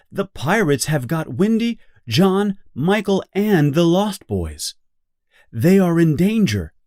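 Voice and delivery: high, urgent little fairy voice; alarmed fairy. Acted. Tinker Bell warns Peter the pirates have everyone, alarmed. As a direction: Tinker Bell rushes in with bad news.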